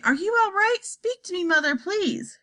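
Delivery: high, worried pleading; anxious pleading. A narrator's reading. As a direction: beg her to speak. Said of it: "cried Missus Bucket".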